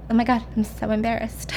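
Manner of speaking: soft mock-mortified murmur; embarrassed aside. Jules to the doctor after introductions, quietly embarrassed. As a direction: shrink it down, lightly embarrassed.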